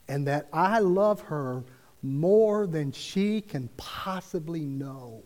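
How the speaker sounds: slow, deliberate and loving, each phrase weighed; slow tender message. Retold or imitated. The preacher relaying God's words to the nurse, slow and tender. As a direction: let it land slowly, like a gentle word from God. God speaks in his ear.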